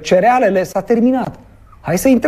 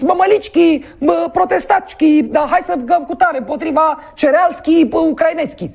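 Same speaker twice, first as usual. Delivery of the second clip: high, mocking Romanian with a fake Bulgarian twist, pitched up; mock Bulgarian accent; 8 semitones higher than usual. Bulgarian minister rallying farmers, mock accent. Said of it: "a zis".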